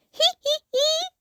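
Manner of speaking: put-on high children's giggles; giggling. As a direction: giggle together playfully. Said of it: "Peppa and George giggled".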